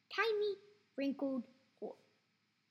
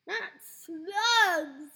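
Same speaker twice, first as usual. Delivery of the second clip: a higher, louder cry of disgust; 4 semitones higher, 10 dB louder than usual. A narrator's reading. George cries out at the thought of eating slugs, higher and louder. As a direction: recoil in disgust. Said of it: "George cried out".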